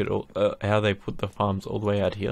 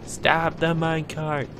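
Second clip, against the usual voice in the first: higher urgent call; 6 semitones higher than usual. Real, not acted. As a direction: shout to halt the cart. Calling to stop the minecart.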